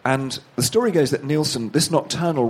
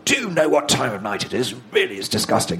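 mock indignant neighbour. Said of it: "huge banging on the door".

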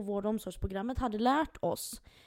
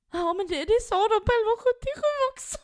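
laughing; 12 semitones higher, 8 dB louder than usual. Retold or imitated. Retold phone call, laughing.

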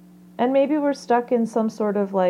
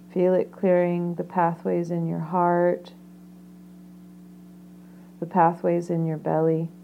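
guided meditation. Acted.

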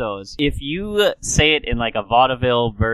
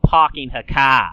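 Snooki; 5 dB louder than usual. Retold or imitated. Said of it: "that is when we get Snooki".

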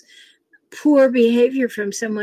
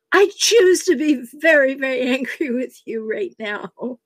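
mock anger; 2 semitones higher than usual. Mother turning to her twelve-year-old, retold anger with amusement. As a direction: imitate an angry mother, with a laugh slipping in. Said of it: "I was in full flight, so angry".

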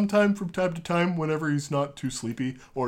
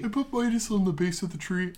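character voice; 5 semitones higher than usual. Acted. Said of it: "Why am I using my character voice?".

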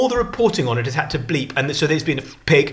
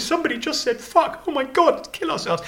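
high-pitched hammed-up panic; mock-horrified presenter; 10 semitones higher, 3 dB quieter than usual. Live presenters apologising for a swear word, mock panic. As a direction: play scandalised horror in a high voice.

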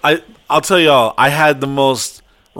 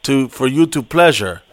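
inspirational speech; 3 semitones lower than usual. Retold or imitated. Speaker addressing the Colombian women, lower solemn pep talk. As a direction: give a solemn motivational talk. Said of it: "inspirational meeting".

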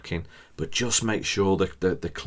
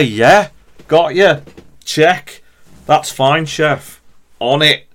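brisk kitchen reply; 8 semitones higher, 12 dB louder, slower than usual. Pretend. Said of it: "Just say".

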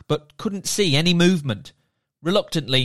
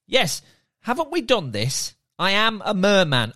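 mildly impatient merman; 4 semitones higher than usual. Acted. Merman character voiced.

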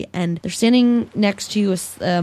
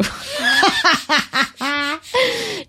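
a burst of real laughter at her own joke; 8 semitones higher than usual. Real, not acted. Laughing after the fake line from Tyler, amused.

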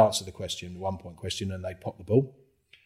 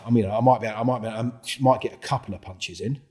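mock bravado; 3 semitones higher, 3 dB louder than usual. Telling Chris he might fight.

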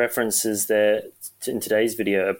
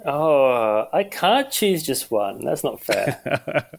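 mock whine; 4 semitones higher, much slower than usual. Playful protest at forced choice.

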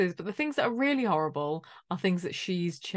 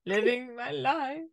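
dopey shrug voice; 3 semitones higher, slower than usual. Retold or imitated. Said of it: "He's like".

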